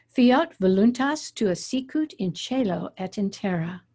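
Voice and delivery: measured reading of the Lord's Prayer in Latin, each accented syllable stressed; teacher demonstrating Latin prayer pronunciation; reading Latin aloud. Shown as a demonstration. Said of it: "But this is what it sounds like".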